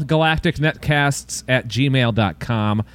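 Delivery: slightly slow email read-out; measured read-out. Shown as a demonstration. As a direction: give out the address steadily. Email given out twice, slower second.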